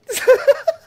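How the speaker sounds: a sudden high cackling burst; high loud laugh. Real, not acted. Laughing right in the mourner's face.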